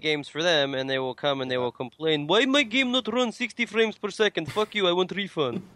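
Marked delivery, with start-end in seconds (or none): 2.3-5.6 light mock Russian accent, broken English; a hint of a Russian accent. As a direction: complain like a gamer in a thin Russian accent. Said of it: "doing a Russian accent".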